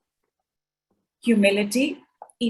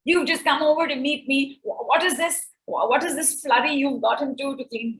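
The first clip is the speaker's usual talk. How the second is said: imitating son; 4 semitones higher than usual. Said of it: "when my son says".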